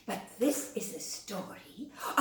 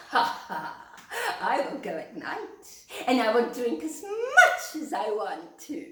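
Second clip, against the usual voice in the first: naughty rabbit; 3 semitones higher, 3 dB louder than usual. Acted. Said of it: "he thought to himself".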